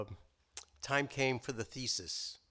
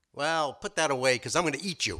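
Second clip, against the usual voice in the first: louder, bossy lion demand; threatening lion; 4 semitones higher, 8 dB louder than usual. Acted. Lion telling the rabbit he will eat him, louder. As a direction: lay down the threat like a hungry lion.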